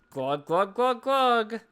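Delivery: rhythmic glugs climbing in pitch; spoken pouring noise, rising; imitated glugging. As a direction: mimic a bottle pouring.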